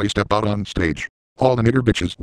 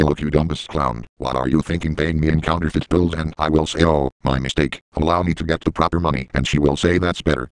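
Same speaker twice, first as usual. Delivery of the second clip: ticket lady; 3 semitones lower than usual. Acted.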